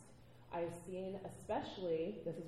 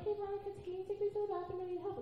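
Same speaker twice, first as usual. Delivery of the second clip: put-on drunk girl; 12 semitones higher, faster than usual. Drunk girl asks for help.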